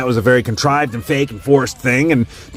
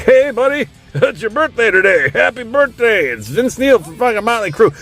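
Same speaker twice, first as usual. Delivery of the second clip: a singer's Cameo impression; 11 semitones higher than usual. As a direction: ham up a lazy celebrity shout-out. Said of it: "be like".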